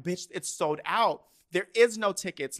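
imitated inner voice, emphatic disbelief; exasperated thought. Teen's mind arguing the show is sold out, exasperated.

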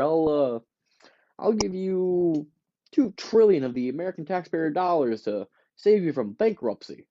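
government official smoothly offering Walmart a bailout; slick government official. Retold or imitated. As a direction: make a shady backroom offer.

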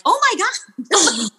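drawn-out, high-pitched disbelief; slow, incredulous mock outcry; mock exasperation. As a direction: retell it as an exasperated high exclamation. Retells exasperation at boyfriend getting massage.

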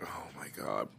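low, very soft aside; quiet, low mock dismay; hushed retold reaction. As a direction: drop right down, nearly under your breath. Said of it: "I'm like".

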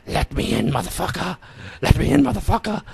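eerie put-on child voice, rising high; little girl's voice. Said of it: "it's like a little girl's voice".

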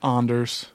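Anders with a broad "ah"; AHN-ders. Real, not acted. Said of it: "is it Anders or Anders".

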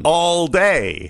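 helium voice. Acted. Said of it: "talk in a helium voice".

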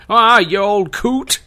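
high, slow drawn-out oldster impression; crotchety character. Joker teases the old ghost, slow and crotchety. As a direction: drawl it out as a comic character.

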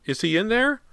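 very high, loud question; anxious mother calling in a high voice. A narrator's reading. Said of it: "she heard her mother call".

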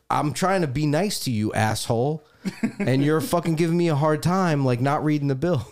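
mock exasperation at the waiter; a hint of irritated scolding; getting annoyed. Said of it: "And I'm getting annoyed".

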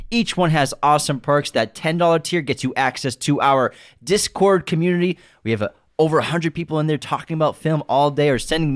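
brisk, energetic sponsor-style pitch; podcast promo read. Acted. Host pitches Patreon tiers to listeners, promo read. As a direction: keep the sales read moving.

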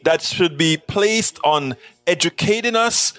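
a hint of put-on indignation; irate in character. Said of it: "a little bit irate, sort of in character".

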